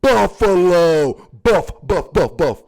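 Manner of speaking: exaggerated African accent, loud drawn-out "Buffalo"; hammed-up African accent, slow then staccato. Shown as a demonstration. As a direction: punch "buff" over and over in an African accent. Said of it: "I'm saying it with my African accent".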